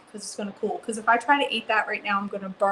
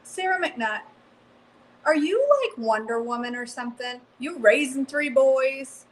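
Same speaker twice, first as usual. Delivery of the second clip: playful amazement; 4 semitones higher than usual. Real, not acted. Teasing viewer in mock amazement.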